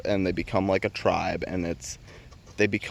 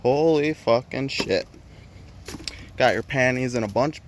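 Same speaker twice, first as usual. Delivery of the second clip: mock surprise; 4 semitones higher than usual. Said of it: "And I was like".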